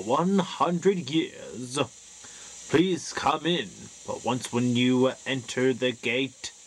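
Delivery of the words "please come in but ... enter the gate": dark lord. Acted. Spooky host warning visitors.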